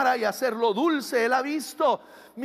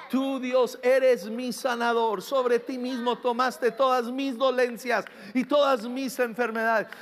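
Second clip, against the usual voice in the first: modeled prayer declaration; 2 semitones lower than usual. Shown as a demonstration. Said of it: "Cuando tú empiezas a declarar".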